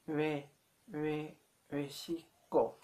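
"Mexico" with a soft, loose-lipped M, near "we-shi-ko". Shown as a demonstration. Teacher showing learners the Nahuatl word, soft M. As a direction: open "Mexico" on a w-like "ve", lips not closed. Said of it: "more soft, softer. So you have to say".

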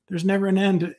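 repeating the prophet's words to himself, deflated; mock dismay, echoed. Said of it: "I remember hearing that last, uh, sentence there and going".

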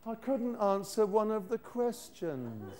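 a slow, laughing whine; whining.

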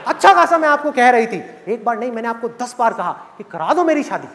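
hammed-up tantrum at dad; indignant daughter. Daughter ranting at her father over the phone, mock-outraged.

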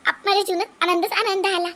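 high, tearful plea to her mother-in-law; begging through tears to defend her daughter; tearful pleading. Acted. Daughter-in-law to mother-in-law, defending her baby girl, tearful high plea. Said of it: "सुनबाई, तू रडू नको".

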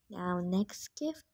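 hushed slow announcing; soft, drawn-out announcement. Real, not acted. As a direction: murmur it slowly to yourself first. Repeats the phrase, first softly.

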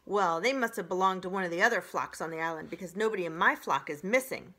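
fast, loud, matter-of-fact; brisk goose. Acted. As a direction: rattle it off briskly.

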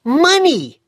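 high, loud, scornful; scornful boy Dick. Acted. Dick tells Mister Hobbs the reason, scornful and high. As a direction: spit the word out.

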